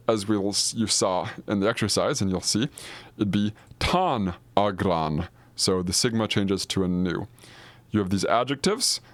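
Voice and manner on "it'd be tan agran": "tan agran" said slowly and clearly; slow Greek form. Shown as a demonstration. Teacher shows the accusative form aloud, slow and careful. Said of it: "if these were accusative".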